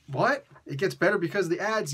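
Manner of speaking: incredulous imagined questioner; put-on baffled challenge; mock disbelief. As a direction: question it as if you can't believe it. Acts out a disbelieving viewer.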